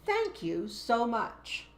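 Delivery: calm firm classroom command; adult teacher taking charge. Shown as a demonstration. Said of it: "the adult, professional teacher voice".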